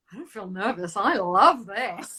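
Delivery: put-on a giddy kid's joyful discovery; laughing delight. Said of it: "I was like".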